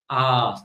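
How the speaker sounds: "ah" as a long open vowel; longer ah. Shown as a demonstration. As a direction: draw out the "ah". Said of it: "would be a longer".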